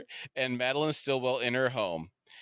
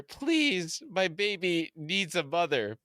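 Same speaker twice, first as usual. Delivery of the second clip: high-pitched begging actress voice; mock pleading; 5 semitones higher, slower than usual. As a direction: plead in a hammed-up, higher voice. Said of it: "Susan begs Butcher".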